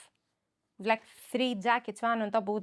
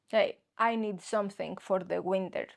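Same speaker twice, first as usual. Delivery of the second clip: mock Swedish customer; 5 semitones lower than usual. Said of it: "I don't know why they sound like this".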